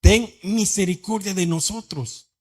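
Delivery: slow, stretched-out cry for mercy; shouted plea. Acted. Lepers beg Jesús for mercy from afar, crying out. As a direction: plead across a distance. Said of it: "Pero le gritaron".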